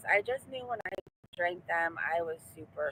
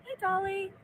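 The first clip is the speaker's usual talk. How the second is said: excited greeting; 12 semitones higher than usual. Real, not acted. Greeting a passing sign.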